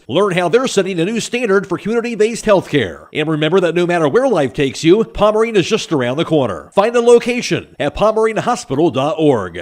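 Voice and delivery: smooth radio ad voice; ad read. Acted. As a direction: read it like a hospital spot. Hospital ad read.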